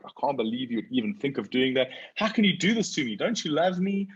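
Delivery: a mortified teen begging her dad, mock whine; daughter's whiny plea. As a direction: pitch jumps way up, fast and pleading.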